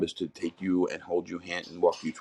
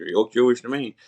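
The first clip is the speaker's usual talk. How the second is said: playful friend; 6 semitones higher, 4 dB louder than usual. Retold or imitated. Friend teasing in retold exchange.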